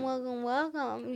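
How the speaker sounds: tone the welcome down; quiet. Shown as a demonstration. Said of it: "No, we can do welcome".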